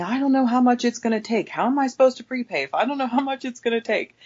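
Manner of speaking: high, indignant mock tirade; imitated yelling. Customer told she has to prepay, imitated high-pitched yelling. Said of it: "she continues to yell at me".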